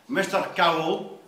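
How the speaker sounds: a touch of stiff formality; lightly voiced formal housemaster; formal McGuire. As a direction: greet him coldly and properly. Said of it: "very formal".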